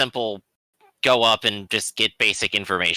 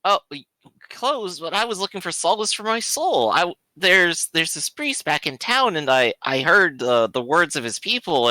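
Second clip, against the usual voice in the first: slightly raised, halting plea; visitor seeking solace; 4 semitones higher than usual. Acted. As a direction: play a hesitant would-be worshipper.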